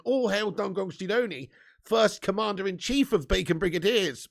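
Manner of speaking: slow, drawn-out royal proclamation; mock-regal decree; grand proclamation. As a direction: hail him like a herald before the court. Proclaims title back to fan.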